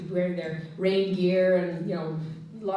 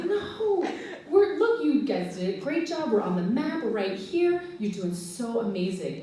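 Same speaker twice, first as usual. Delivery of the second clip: reassuring; 2 semitones higher than usual. Retold or imitated. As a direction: soothe a worried child. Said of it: "And I would say".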